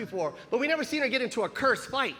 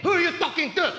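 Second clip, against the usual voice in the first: loud, higher mock outrage; confrontational mom; 6 semitones higher, 4 dB louder than usual. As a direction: act a tough little mother defending her kids. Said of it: "My mom popped around the corner".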